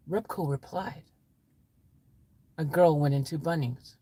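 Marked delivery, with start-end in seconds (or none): 2.6-4.0 low, understated answer; matter-of-fact reply. Acted. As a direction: answer low and evenly, falling away. Story character gives the answer.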